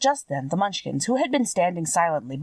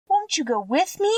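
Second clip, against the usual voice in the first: put-on much higher, begging little-girl plea; pleading; 11 semitones higher than usual. A narrator's reading. Dorothy begging the kind witch to come along, high pleading voice. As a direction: plead with her not to leave you alone. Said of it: "pleaded the girl".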